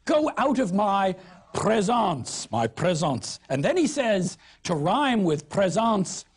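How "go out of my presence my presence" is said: mock Southern accent. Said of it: "a French word".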